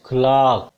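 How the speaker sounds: CLERK as "klaak"; British clerk vowel. Shown as a demonstration. Teacher correcting learners, CLERK as "klaak". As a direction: stretch CLERK's vowel to "ah", drop the r. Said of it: "the word is clerk".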